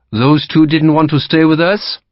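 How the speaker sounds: a touch of puzzled surprise; surprised. Acted. French captain watching women leave, mildly surprised. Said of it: "He sounded surprised".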